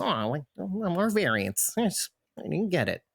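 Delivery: high, whiny mock fan. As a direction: imitate a disappointed fan. Fans wanting more variants.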